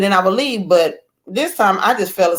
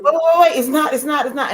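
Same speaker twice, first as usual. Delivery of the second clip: high, urgent cut-in; flustered interruption; 7 semitones higher than usual. Acted. Arguer sees the imagined script derail, flustered. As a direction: break in on a script going wrong. Acts out interrupting an unscripted argument.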